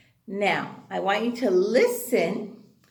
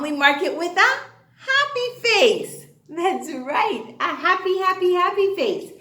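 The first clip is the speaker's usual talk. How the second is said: singsong happy face; 5 semitones higher, 4 dB louder than usual. Shown as a demonstration.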